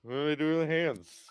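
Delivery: high-pitched comic fluster; flustered Ricky Bobby panic. Retold or imitated. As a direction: play a lost, panicky interviewee. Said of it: "I'm gonna be fucking Ricky Bobby".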